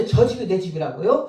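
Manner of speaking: retold astonishment. Missionary asking God if that house is theirs, acted surprise. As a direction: imitate someone checking unbelievable news.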